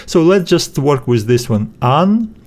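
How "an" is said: "An, thro" as separate syllables with a pause. Shown as a demonstration. Teacher splitting a Greek word after the vowel, syllable by syllable. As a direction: say "An", stop, then "thro". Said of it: "we need to split it after the vowel".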